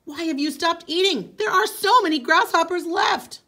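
high and loud spirit voice; booming Great Spirit. Acted. Great Spirit scolding Coyote for stopping, booming. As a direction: call down from above, commanding. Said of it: "It was the Great Spirit".

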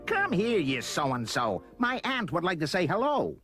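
yell. A narrator's reading. Roy orders his pet to meet his aunt, yelling. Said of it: "Roy yelled".

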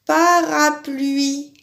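calm, slow "Parapluie"; slow repeat. Shown as a demonstration. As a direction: repeat "Parapluie" slowly to check the rhyme. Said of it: "ça finit par I".

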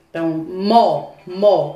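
the syllable mo said on its own, twice; syllable demo. Shown as a demonstration. Teacher sounding out mo from moto for children. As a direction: isolate mo for the children, then repeat it. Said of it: "que é isso aqui?".

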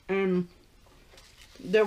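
talking between bites; chewing. Real, not acted. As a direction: mouth partly full. Seen 4: bites at -1.0; cheeks full, chewing early; later wipes hands.

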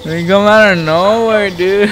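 raging gamer. Real, not acted. Complaining after death.

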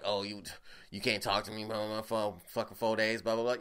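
mock whiny complaint. Mocking an annoyed date.

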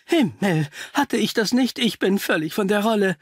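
jolted doctor catching his own omission; startled. Acted. Guest realises he forgot to explain, startled. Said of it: "Unser Gast zuckte zusammen".

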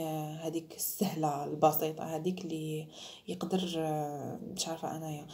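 whispered aside. Real, not acted. Unvoiced aside.

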